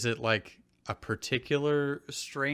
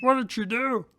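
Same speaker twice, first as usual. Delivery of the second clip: curious Drew; 11 semitones higher than usual. Acted. Drew voice continues.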